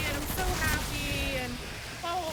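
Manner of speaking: high, bubbly mock gushing over the baby; a lightly mocking impression of a thrilled expectant mother; gushing excited mom. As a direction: mimic a giddy mom-to-be, all sugar. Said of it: "most women are like".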